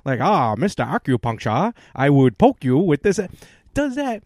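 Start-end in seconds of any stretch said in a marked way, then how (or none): 0.2-3.2 loud, over-the-top mock Asian accent, quoted from an old game show; imitating a host's mock Asian accent, loud; mock stereotype Asian accent. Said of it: "over-the-top racist Asian accent".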